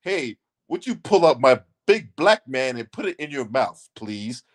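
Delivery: imitating an absurdly well-mannered proposition; mock polite request. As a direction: mimic a stiffly courteous man, dropping low. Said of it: "We not doing no shit like that".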